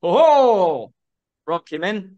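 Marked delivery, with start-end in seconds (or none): 0.0-0.9 Viking whoop. Retold or imitated.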